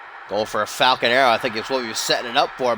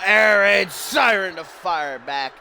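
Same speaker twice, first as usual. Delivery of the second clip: excited shout; 3 semitones higher, 3 dB louder, slower than usual. Real, not acted. Commentator calls big move.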